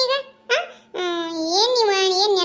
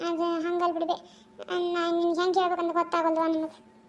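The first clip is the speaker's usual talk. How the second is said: sheepish stalling; 6 dB quieter than usual. Acted. Caught daughter stalls before mother.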